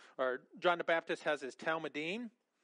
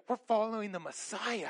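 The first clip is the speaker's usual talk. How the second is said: a touch of excited eagerness, slightly higher; eager disciples, mildly hyped; pumped up; 4 semitones higher than usual. Retold or imitated. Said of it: "are, are just pumped up".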